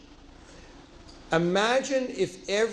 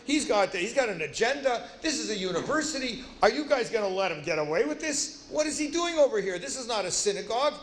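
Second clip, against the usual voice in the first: imitating an indignant student, pitched higher; mock agitated protest in a higher voice; agitated heckler; 4 semitones higher than usual. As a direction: act out a worked-up challenge, pitch jumping. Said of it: "Why are you so agitated?".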